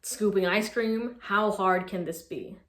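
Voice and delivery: a light, eager retelling of past excitement, quick at first and then slowing; imitating her naive younger self; lightly excited inner voice; mock excited. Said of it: "I was excited".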